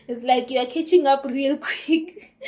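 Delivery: laughing mock jibe; teasing, making fun. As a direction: imitate a partner's teasing, laughter breaking in. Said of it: "making fun of the whole situation".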